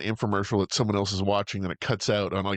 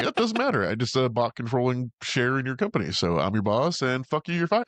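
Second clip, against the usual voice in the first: smug boss; 2 semitones higher than usual. Retold or imitated. Mocking rich guy firing him.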